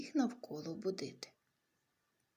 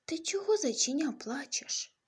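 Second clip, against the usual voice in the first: much higher, squeaky little voice; tiny bug voice; 6 semitones higher, 4 dB louder than usual. Acted. Tiny bug asking the crying bunny, high and squeaky. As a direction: sound as small as a tiny beetle.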